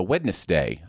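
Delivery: Wednesday with every written letter sounded, Wed-nes-day; over-enunciated. Shown as a demonstration. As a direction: enunciate all three syllables of "Wednesday". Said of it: "I like to enunciate things".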